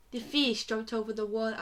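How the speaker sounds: badly faked Australian accent; attempted Australian accent. Shown as a demonstration. Friend trying the taught phrase, tragic Australian accent. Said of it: "in an Australian accent".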